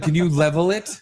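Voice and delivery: lightly voiced Artie Bucco; a hint of Artie Bucco. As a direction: ask it like a slick little restaurateur. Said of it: "Artie Bucco all of a sudden".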